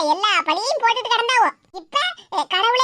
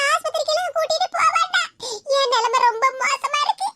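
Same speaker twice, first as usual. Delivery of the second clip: mock tearful quote; 2 semitones higher than usual. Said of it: "சொன்னாவளாம்".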